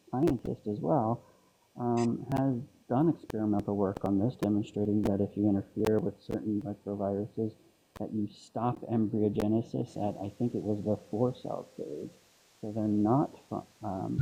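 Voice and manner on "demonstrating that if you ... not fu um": muffled, like underwater; talking far from the phone mic. Real, not acted. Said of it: "you sound like you're underwater".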